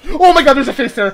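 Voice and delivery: screaming in real fright; terrified scream. Real, not acted. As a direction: shriek at the jump scare. Sudden scare in horror game.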